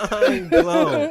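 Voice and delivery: high-pitched words through real laughter; amused, laughing repeat. Real, not acted. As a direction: say it while cracking up. Repeats it while group cracks up.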